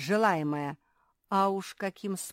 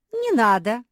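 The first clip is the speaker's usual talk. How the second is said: high, loud echoed cry; echoing shout; 7 semitones higher, 12 dB louder than usual. A narrator's reading. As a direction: echo it back loudly. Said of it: "эхом отозвалась Наретта".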